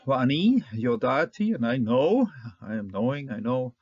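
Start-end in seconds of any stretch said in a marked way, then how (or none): 0.1-1.5 slow, careful reading of the Hebrew va'ani yodati. Shown as a demonstration. Teacher reading Hebrew to students, slow and careful. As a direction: sound out va'ani yodati slowly for the class.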